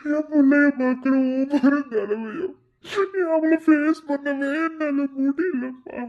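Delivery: tearful, breaking voice; father weeping to his mother about his daughter; crying. Acted. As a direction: fight through tears telling mother. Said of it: "என்னடா அழுதுட்டு இருக்க".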